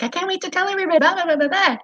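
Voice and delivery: high, gushing voice of the best friend; imitating excited friend. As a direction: play the friend bursting to tell.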